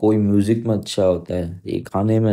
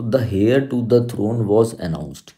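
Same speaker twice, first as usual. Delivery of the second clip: slow and careful, like dictating to the class; slow dictation; much slower than usual. Shown as a demonstration. Teacher reading the sentence aloud slowly to students. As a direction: read out very slowly, word by word. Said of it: "तो देखो हेयर नहीं होता कभी".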